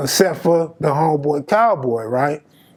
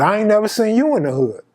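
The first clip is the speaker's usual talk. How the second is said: feigned ignorance, higher with "you" lifted; mock-clueless comeback, pitched up; playing stupid; 4 semitones higher, faster than usual. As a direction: turn it back on him, playing dumb. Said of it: "now I gotta play stupid".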